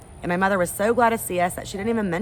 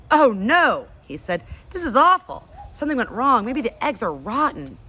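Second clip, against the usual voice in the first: dismayed father; 7 semitones higher, 6 dB louder than usual. Acted. Father tastes his awful omelet.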